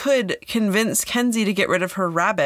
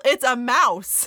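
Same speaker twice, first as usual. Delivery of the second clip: excited reveal; 4 semitones higher, slower than usual. Real, not acted. Telling a shocking discovery.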